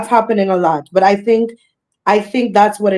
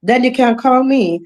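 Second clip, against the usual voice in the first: fast, insistent patter, pitched up; firmly letting know; 3 semitones higher, faster than usual. Acted. Entertainer sending a caller to her manager, firmly letting them know. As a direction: rattle off the booking rules, brooking no argument. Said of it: "I'm just letting you know that".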